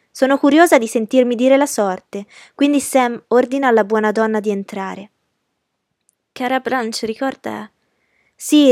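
spoilt, commanding society belle; imperious young lady. A narrator's reading. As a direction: insist on having your own way. Imperious Blanche insists on her way.

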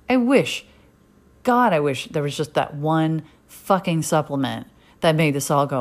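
exasperated rant. Real, not acted. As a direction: vent at the people handing out cures. Venting at unsolicited advice.

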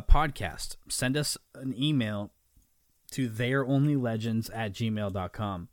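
talking through a burp; burpy voice from bubble water; burping after fizzy drink. Real, not acted. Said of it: "Sorry, I'm burping".

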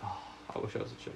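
soft feminine whisper; mock girly hush. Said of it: "that's when you go feminine".

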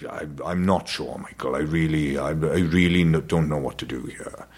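a hint of Dad dithering to his son; imitated Welsh dad. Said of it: "so my dad told me".

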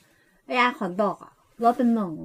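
put-on slow, sweet girly read with a changed timbre; playful cutesy take on the sausage ad line. Shown as a demonstration. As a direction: coo the slogan like a cute young girl. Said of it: "เสียงแบบก้อยๆหน่อย".

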